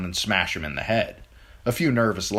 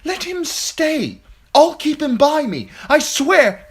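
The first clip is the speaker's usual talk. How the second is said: high, loud, slow begging; loud pleading; 8 dB louder, slower than usual. A narrator's reading. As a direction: draw it out, swearing loudly. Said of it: "Sir Lancel pleaded".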